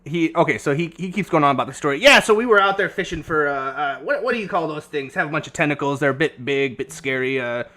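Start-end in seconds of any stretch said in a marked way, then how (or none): 2.0-7.6 lightly voiced old codger, loud and wandering; a hint of an old sea dog spinning a yarn; rambling old sailor NPC. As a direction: ramble like a half-mad old fisherman.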